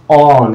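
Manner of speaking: অন held alone as a long "awn"; isolated syllable. Shown as a demonstration. Teacher showing breath per syllable, isolated demonstration. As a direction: release অন as a separate drawn-out beat. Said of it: "এবার বের হয়ে গেল".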